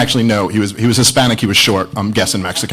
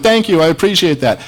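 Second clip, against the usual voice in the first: higher, mildly gushing retold thanks; flattered, with a touch of mock delight; 6 semitones higher than usual. Comic thanks the man who called him funny, mildly gushing. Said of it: "from my most furious to just loving".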